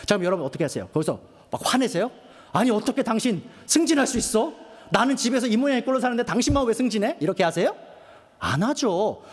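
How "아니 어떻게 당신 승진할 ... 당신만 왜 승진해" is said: acted-out indignant complaint, slightly raised; mock resentful wife. Wife to husband over his promotion, mock indignant. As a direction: play a wife protesting her unfair lot.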